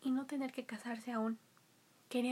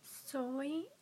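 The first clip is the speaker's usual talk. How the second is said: cartoon princess; 3 semitones higher, much slower than usual. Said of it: "dijo la princesa".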